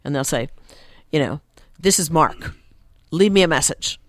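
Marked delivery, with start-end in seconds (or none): 1.8-4.0 brief, emphatic voicemail message in separate short phrases; curt voicemail greeting. Retold or imitated. Man's voicemail telling callers to leave a message, curt. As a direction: say it as a businesslike outgoing message, no small talk. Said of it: "you listen to somebody's voicemail".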